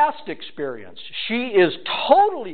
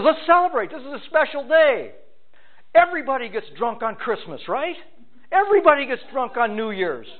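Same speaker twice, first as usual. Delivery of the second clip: voicing the seductress; 8 semitones higher than usual. Preacher voicing seductive woman.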